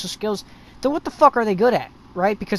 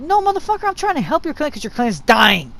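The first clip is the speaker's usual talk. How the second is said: heated, pleading comeback; exasperated retort; 5 semitones higher than usual. Acted. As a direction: pitch leaps up in protest. Acts out his exasperated retort to clan.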